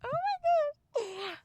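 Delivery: very high, slow, drawn-out gasp of horror; stunned disbelief. Real, not acted. Player reacting to the exposed bone, stunned. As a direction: stretch it out in utter shock. Gruesome game description.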